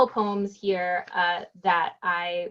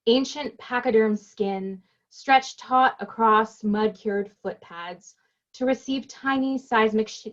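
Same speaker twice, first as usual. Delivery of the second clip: slow, measured poetry recital; deliberate poet's cadence with pauses between images; poem reading; slower than usual. Acted. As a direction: read it as verse, lingering on each phrase. Reads own poem aloud.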